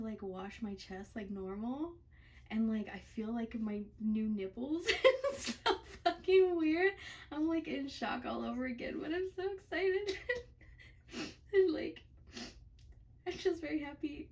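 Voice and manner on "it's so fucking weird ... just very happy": laughing. Real, not acted. Overjoyed after surgery, laughing.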